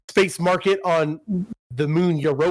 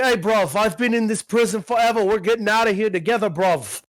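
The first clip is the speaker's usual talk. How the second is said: a light put-on Cockney accent, a bit higher; mock Cockney; 4 semitones higher than usual. Retelling the game's Cockney cellmate to friends, light Cockney accent. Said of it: "like, this Cockney guy".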